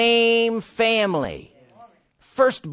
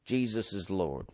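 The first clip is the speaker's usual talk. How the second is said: hushed praise; 12 semitones lower, 13 dB quieter than usual. Real, not acted. Quiet devotional aside.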